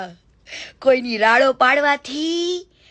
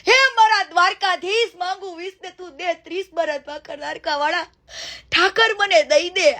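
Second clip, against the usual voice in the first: mock begging prayer. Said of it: "આવી ભીખ માંગી લે".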